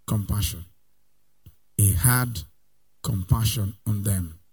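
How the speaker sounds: very soft, low word of wonder; hushed. Acted. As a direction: breathe the word out quietly. Hushed emphasis.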